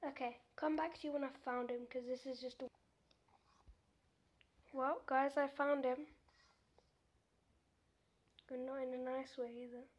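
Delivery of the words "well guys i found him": loud announcement. Real, not acted. Announces finding the Enderman.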